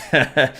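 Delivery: short scornful laugh of a thug; goon's mocking laugh. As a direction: laugh at her like a goon who isn't worried. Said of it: "the goon laughs and says".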